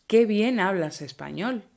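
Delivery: praising exclamation. Shown as a demonstration. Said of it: "we would say".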